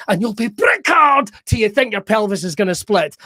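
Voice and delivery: ordinary talk, nothing marked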